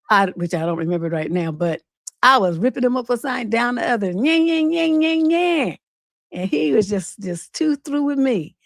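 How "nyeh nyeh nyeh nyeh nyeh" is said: mocking nyeh nyeh. Mocking imitation of cussing.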